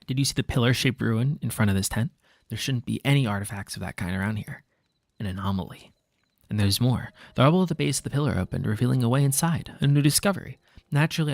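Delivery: put-on laid-back California surfer accent. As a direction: read it like a chill surfer dude. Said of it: "the surfer voice".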